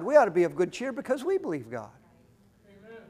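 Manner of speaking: ordinary talk, nothing marked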